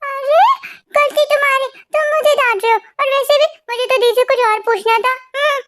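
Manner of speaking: acting cute. Girl defending herself against the boy's scolding, acting cute. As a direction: play innocent with a cute little pout. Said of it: "अभी cute बनने की acting ना मेरे सामने मत करो".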